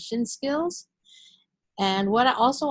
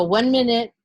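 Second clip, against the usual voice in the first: mock impatient stall; 3 semitones higher, 4 dB louder than usual. Shown as a demonstration. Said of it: "Especially if you go".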